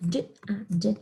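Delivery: d, uh, d as separate letter sounds; sounded out. Shown as a demonstration. Teacher spelling dad for the class, sounded out. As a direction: break it into short separate sounds.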